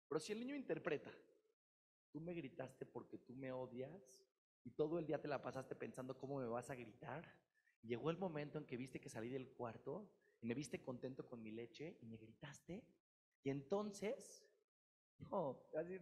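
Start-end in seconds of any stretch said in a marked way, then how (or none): 2.1-12.8 sulky accusation. Pretend. Child's hurt interpretation.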